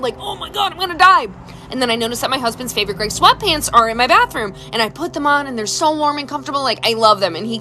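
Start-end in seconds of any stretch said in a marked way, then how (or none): 0.2-1.3 high, hammed-up despair; mock dying wail. Sick woman freezing on the floor, mock dying wail. Retold misery of food poisoning.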